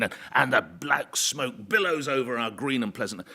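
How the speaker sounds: a hint of a pompous on-air rant; lightly played indignant broadcaster; mock outrage, drawn out. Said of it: "I suddenly go off on this rant".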